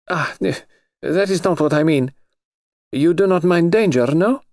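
lightly voiced high noble lady; a touch of a high, haughty aristocrat; lady's voice. Princess presses Jane.

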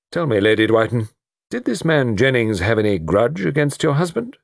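lightly voiced investigating officer; questioning colonel. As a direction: press politely for the exact time.

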